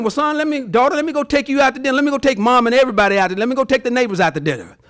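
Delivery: fast, giddy parent rattling on; excited parent. Pretend. Proud parent offering dinner for good grades, fast and giddy.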